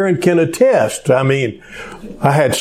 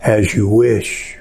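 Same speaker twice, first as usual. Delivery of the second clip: loving; 4 semitones lower than usual. Retold or imitated. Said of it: "he very lovingly says".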